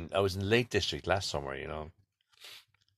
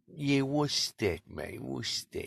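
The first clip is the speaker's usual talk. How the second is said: imitating Cockney Dave; 6 semitones higher, much slower than usual.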